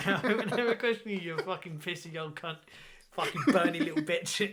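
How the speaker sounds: hammed-up sneering echo of the promise; mocking. Admiral insulting Vader behind his back, mocking.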